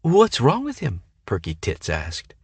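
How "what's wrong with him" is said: 1 ditzy high voice. A narrator's reading. Perky Tits asks.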